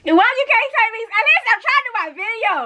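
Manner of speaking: talking with loose teeth; slurred words past loose dentures. Real, not acted. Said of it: "Let me put my teeth back in".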